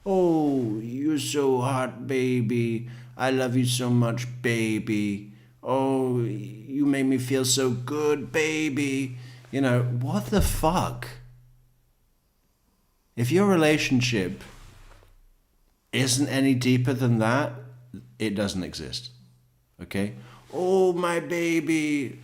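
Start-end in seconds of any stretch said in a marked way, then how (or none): 0.1-9.2 put-on breathy cooing cam girl voice, slightly higher; sweet nothings. 20.5-22.2 high, slow mock cooing; drawn-out hammy baby talk; sweet nothings. Mocking cam girl cooing.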